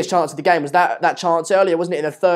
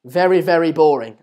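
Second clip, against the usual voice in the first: louder, stressed "Very, very boring" as a final verdict; 6 dB louder than usual. Shown as a demonstration. Streamer giving his match review to the guest, emphatic. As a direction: deliver the match review in three words. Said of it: "That's gonna be my match review".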